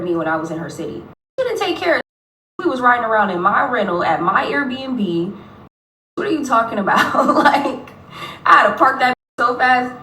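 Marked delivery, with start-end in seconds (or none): 1.4-4.2 much higher, mock disbelief; incredulous retort. Scoffing at the woman's claim, incredulous. 6.2-9.9 louder, laughing through the words; laughing disbelief. Real, not acted. Laughing at the woman's claim, amused disbelief.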